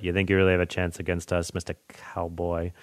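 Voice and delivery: a hint of the villain's quiet scorn; European disdain. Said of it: "the European disdain in his voice".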